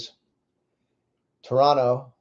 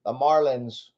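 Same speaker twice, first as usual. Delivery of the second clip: high, slow vintage radio call; 1950s announcer; 6 semitones higher, slower than usual. Pretend. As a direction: stretch it out like an old announcer. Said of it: "nineteen fifties announcer".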